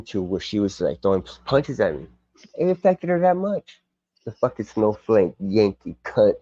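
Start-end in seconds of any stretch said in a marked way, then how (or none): 4.2-6.4 lightly done mock English accent, slow; a slow, half-hearted English accent. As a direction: take the piss out of an English bloke, in a light English accent. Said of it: "kinda like a piss take of an English person".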